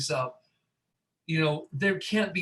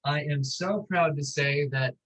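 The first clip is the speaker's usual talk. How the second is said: drawn-out proud announcement; said slowly. Real, not acted. Announcing the passport slowly to the hosts. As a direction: stretch out every word with mock pride. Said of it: "I'm saying this slowly".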